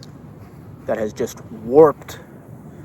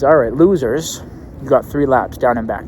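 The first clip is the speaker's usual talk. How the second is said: mock coach bark; 6 dB louder than usual. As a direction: bark the order like a tough coach. Coach orders kids to run.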